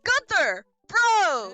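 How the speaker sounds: loud, high shout to a buddy; excited bro call. Pretend. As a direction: holler it out like a hyped frat bro. Calling out as the buddy arrives.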